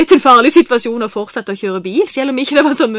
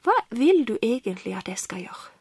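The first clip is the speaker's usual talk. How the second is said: much softer, breathy hushed prayer; whispered prayer; 5 dB quieter than usual. Retold or imitated. To Jesus at home, a whispered prayer. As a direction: pray it under your breath, intimate. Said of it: "og så sa jeg".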